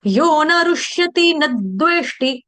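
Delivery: "न द्वेष्टि" chanted as nad-dveshti, leaning on the द; pressed d sound. Shown as a demonstration. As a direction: chant "यो न रुष्यति न द्वेष्टि" with a held, forced द after न. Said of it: "द बोल के थोड़ा force लगाना है". ("न द्वेष्टि" के द पर थोड़ा दबाव देकर गाना)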